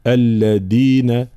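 "الذين" with the ذ stopped like د; wrong dal-like ذ in "الذين"; dhal like dal. Shown as a demonstration. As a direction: close the ذ in "الذين" into a stop. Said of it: "شبيهة بحرف الدال".

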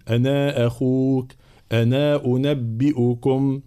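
slow أنا with a long final aa before the next vowel; madd kept. Shown as a demonstration. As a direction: hold the end of أنا long in both phrases. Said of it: "يثبت المد".

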